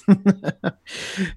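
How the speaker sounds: high, cackling laugh; mad laugh. Acted. Joker laughing off Batman's offer.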